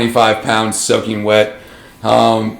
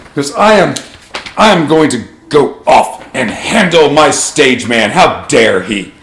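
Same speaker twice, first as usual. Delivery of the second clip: pompous dandy. Acted. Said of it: "and he goes".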